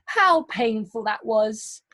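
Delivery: slow, with a touch of pain in the voice; teacher acts out Sipo's pain after falling from the tree, slow and pained. Shown as a demonstration. Let the pain show as you say it slowly. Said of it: "speaking with a bit of pain in your voice".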